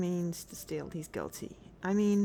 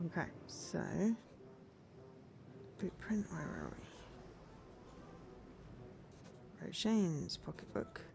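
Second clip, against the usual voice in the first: hiccuping through words; catching hiccups mid-sentence; 10 dB quieter than usual. Real, not acted. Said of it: "I've got the hiccups".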